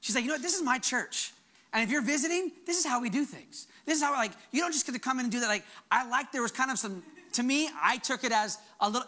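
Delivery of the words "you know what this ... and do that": half-playful scolding that speeds up at the end; sassy ownership. Retold or imitated. Church member telling visitors how things are done, mock indignant. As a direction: lay down the house rules with mock indignation. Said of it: "a healthy sass".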